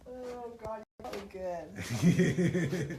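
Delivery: talking around a retainer; words blurred by a retainer; wearing a retainer. Real, not acted. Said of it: "Plus, I got my retainer in".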